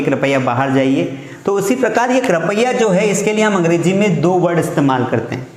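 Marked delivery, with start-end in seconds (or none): 0.0-1.2 softened request with rising end; courteous please, gentle rise; polite request. Shown as a demonstration. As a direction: ask kindly, not order. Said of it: "आप बोलोगे".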